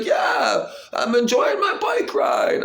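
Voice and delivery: put-on be the kid delighted on his bike; imitating the boy. The boy riding away, high happy shout. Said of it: "He's like".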